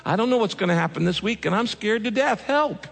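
fearful lament. Pretend. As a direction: beg God in mock fear. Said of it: "lament out of fear".

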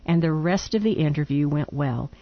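reading a letter aloud. Real, not acted.

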